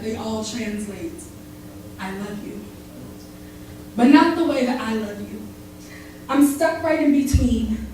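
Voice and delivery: tender spoken-word recital; spoken word love poem. Acted. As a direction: perform it like a slam poem to a lover.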